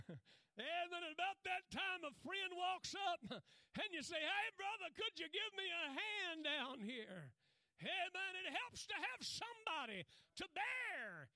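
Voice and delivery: high, loud preacher's cry, slowed down; preaching at full force. Acted. Preacher to the congregation, a full-force pulpit cry. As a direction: hammer it home from the pulpit like a revival preacher.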